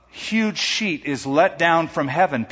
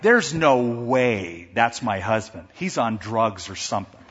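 suspicious wife; 5 semitones lower than usual. Retold or imitated. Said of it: "his wife became so suspicious".

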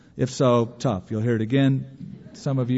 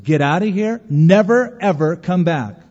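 stern shout; 3 semitones higher, 6 dB louder than usual. Retold or imitated. Pastor throws out false prophet.

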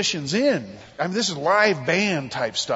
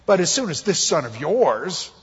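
resentful; 4 dB louder than usual. Acted. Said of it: "saying my brother".

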